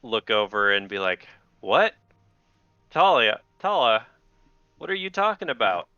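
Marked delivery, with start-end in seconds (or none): 1.6-5.9 high, rising, flustered disbelief; a cornered king sputtering in shock; startled disbelief. Acted. Startled king confronted by guard.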